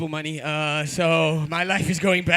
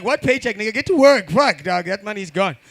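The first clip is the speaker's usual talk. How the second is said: hammed-up angry father; mock angry dad; 6 dB louder than usual. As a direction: bark it like a dad yelling at his kid. MC acts out a dad scolding.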